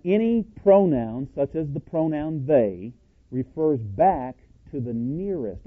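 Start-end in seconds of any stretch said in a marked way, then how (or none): 3.3-5.6 "nearest" drawn out with a pitch lift; slow down and lean on "nearest"; stress on "nearest". Real, not acted. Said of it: "emphasis on nearest".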